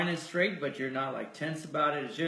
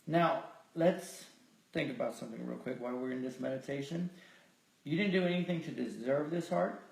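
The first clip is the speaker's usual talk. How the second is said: calm meditation guide, slightly lowered voice; guided meditation; 3 semitones lower than usual. Real, not acted. Leader reflecting on the gift of the heart, guided meditation. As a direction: gently lead them toward gratitude.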